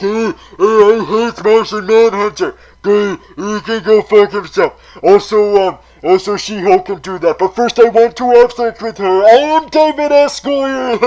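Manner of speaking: mock-rant as a petty screenwriter, rising loud on his name; David S. Goyer impression. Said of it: "that was my impression of David S. Goyer".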